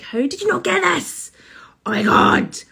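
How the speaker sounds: high, exasperated disbelief, then a loud Oh my God; exasperated outburst. Retold or imitated. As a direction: throw up your hands at the partner, mock raging. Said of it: "I'm like".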